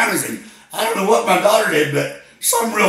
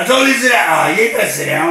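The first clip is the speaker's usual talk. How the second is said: yelling at wife; 2 semitones higher, 4 dB louder, much faster than usual. Acted. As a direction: bark it at the panicking wife. Caller yelling at his wife.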